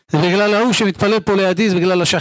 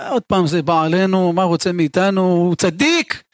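grumbling resentment. Acted. Congregant dreading the rabbi's rebukes, grumbling resentment. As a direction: complain sourly, as if put upon.

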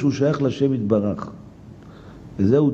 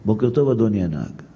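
polite greeting; 5 semitones lower than usual. Shown as a demonstration. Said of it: "ויגיד".

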